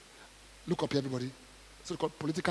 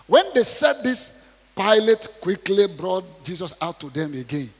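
dramatic narration; 3 semitones higher, 9 dB louder, slower than usual. A narrator's reading.

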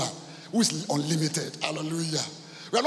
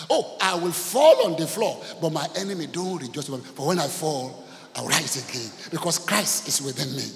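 preaching declamation; 4 dB louder than usual. Acted. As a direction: proclaim the verse, then settle into assurance. Declaims scripture to congregation.

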